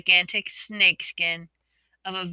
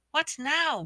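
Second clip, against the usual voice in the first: desperate; 9 semitones higher than usual. A narrator's reading. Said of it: "sounding desperate".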